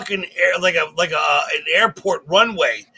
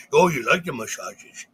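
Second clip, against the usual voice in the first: put-on lightly cooed baby talk to a dog; pet talk; 3 semitones lower than usual. Host to his mutt on the couch, pet talk. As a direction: coo as if rubbing a dog's belly. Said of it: "I had my mutt on the couch going".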